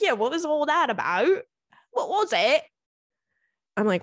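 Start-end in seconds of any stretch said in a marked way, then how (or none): 0.0-2.6 higher put-on voice for his question; lightly mocking, high-pitched questioning; imitated puzzled man. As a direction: mimic a baffled man asking. Retold man's puzzled question.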